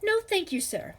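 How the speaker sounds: high, loud frightened gasp. A narrator's reading. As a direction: blurt it out in a panic. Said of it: "she gasped".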